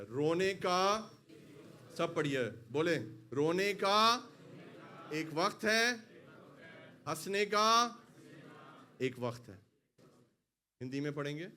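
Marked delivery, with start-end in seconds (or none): 0.0-9.6 رونے کا drawn out slowly, loud and rising; call-and-response reading; slow read for repeating. Shown as a demonstration. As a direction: read it phrase by phrase for the church to echo. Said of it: "پڑھیے سامنے کیا لکھا ہوا ہے".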